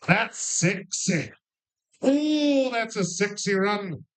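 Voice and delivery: put-on a faint Scottish accent, drawn out slowly. Bingo host to the players, in a mild mock Scottish accent. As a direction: try a Scottish burr on it, lightly. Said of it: "the best Scottish accent I could do".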